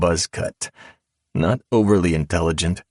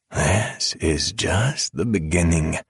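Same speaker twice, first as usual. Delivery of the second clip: drawl; slower than usual. Acted. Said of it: "I drawled".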